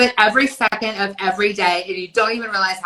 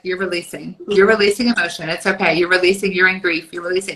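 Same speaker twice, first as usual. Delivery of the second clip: spirit guide voice; 3 semitones lower, faster than usual. Retold or imitated. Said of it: "Spirit's like".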